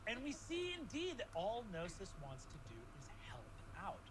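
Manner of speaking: hushed then rising storytelling; game master narration. Acted. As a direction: narrate the journey for the players. GM narrates the ship's journey.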